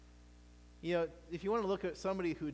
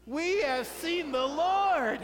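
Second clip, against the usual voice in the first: much higher, louder, slow and stretched out; amazed exclamation; 9 semitones higher, 8 dB louder, much slower than usual. Shown as a demonstration. Pastor leads the congregation in amazed proclamation. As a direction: shout it like you just saw Jesus. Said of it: "Let's say it like you just saw Jesus".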